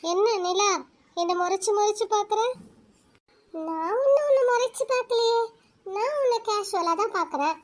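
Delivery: put-on a lonely girl confiding her sorrow to the moon; soft inner talk. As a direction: talk gently to the moon in your head. Girl talks softly to the moon.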